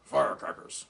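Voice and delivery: breathy whispered reveal; whispered punchline. Acted. Dog whispers the punchline into ventriloquist's ear. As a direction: whisper it like a secret.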